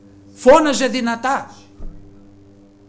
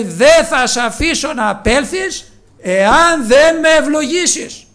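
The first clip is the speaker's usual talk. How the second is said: insistent plea; 3 semitones higher, 5 dB louder, slower than usual. Acted. Jacob pleading with the Lord.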